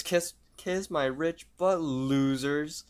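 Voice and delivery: high-pitched mock bragging; excited gloating. Lottery winner to his friends, gloating excitedly. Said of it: "he starts getting excited".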